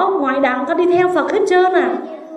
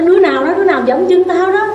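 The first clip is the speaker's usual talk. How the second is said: higher, louder who-stepped-on-me yell; a blind man yelling at whoever stepped on his foot; angry shout; 5 semitones higher, 5 dB louder, faster than usual. Acted. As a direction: bark it out at whoever trod on you.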